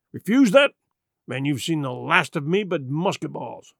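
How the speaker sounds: lightly voiced pirate threat; a rogue's ultimatum; threatening pirate Silver.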